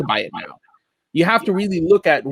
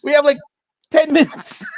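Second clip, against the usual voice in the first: high, fast, through laughter; pushing words out while laughing; 8 semitones higher than usual. Real, not acted. Laughing fit, trying to move on.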